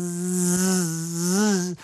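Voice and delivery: long, sustained zzz of a fly; horsefly buzz. A narrator's reading. Storyteller turns Loki into a horsefly, buzzing. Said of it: "un fastidiosissimo tafano".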